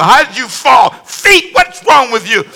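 scolding himself. Acted. Fallen pastor blaming his feet, mock scolding. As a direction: berate your own feet in comic exasperation. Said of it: "you gotta hear what's going on".

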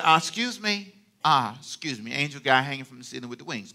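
touch of hand-on-hip indignation, kept quiet; politely affronted, lightly acted; mild sass. Young Mary to the angel hanging from the ceiling, mild sass. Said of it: "if her hands are on the hip".

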